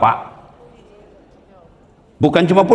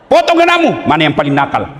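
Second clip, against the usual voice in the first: mock command.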